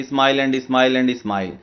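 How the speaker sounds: each smile drawn out slowly; slow poem recital. Shown as a demonstration. Teacher reading a poem line to students, slow and measured. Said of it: "अगर आप देखोगे तो last वाला जो word".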